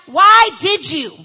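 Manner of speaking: mock interrogation; interrogating detective. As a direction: press like a detective. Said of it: "they sound like".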